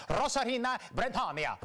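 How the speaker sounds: exaggerated Spanish accent. Commentator mocking newscasters' name pronunciation, hammed-up Spanish accent. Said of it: "pronounce it like we're living in Mexico".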